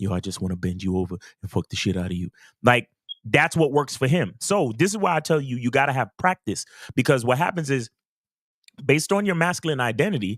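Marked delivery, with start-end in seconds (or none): 0.0-2.3 very low, deep-voiced, low half-whisper. Describing how a laid-back guy talks to a woman: deep half-whisper into her ear. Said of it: "whispers into a woman's ear with his deep ass voice".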